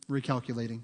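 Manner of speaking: low, soft, steady reassurance; understated calm announcement; firm but gentle. Retold or imitated. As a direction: quietly voice the Holy Spirit correcting course. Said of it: "It is a firm voice at times".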